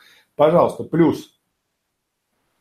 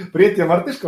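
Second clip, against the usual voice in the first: higher, beaming with a wide grin; bright smile; 5 semitones higher, faster than usual. Shown as a demonstration. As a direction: say it grinning ear to ear. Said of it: "яркое лицо". (с яркой широкой улыбкой)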